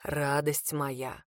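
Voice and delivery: a farewell hidden in a pet name; ominous tenderness. A narrator's reading. Attan murmurs to her, low, slow and ominously soft. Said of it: "Это так прозвучало, что я насторожилась".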